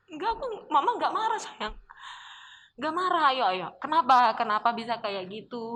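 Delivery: lightly voiced mother calming her child; reassuring mother. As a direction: play the mom soothing her daughter.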